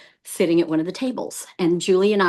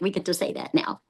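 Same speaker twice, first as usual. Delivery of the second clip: playful aside; 6 dB quieter than usual. Real, not acted. Aside to the listeners.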